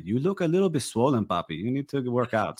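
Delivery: imitating a mom's Venezuelan accent; lightly voiced mom with a Spanish accent. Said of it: "entire show in that accent".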